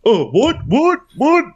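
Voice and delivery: high mock bewildered what; 1 mocking confused what. Players acting baffled, mock confused high whats. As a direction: play the confused zombies. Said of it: "they're like".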